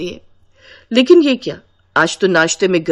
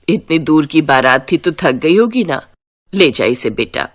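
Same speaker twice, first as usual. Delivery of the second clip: lower, motherly mother-in-law voice; kindly mother-in-law; 5 semitones lower than usual. Acted. Mother-in-law sending son and bride to rest, lower and kindly. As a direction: settle the tired bride in kindly.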